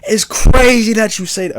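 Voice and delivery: put-on high, loud, drawn-out New Orleans accent; New Orleans local's accent. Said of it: "I'm not gonna do the accent".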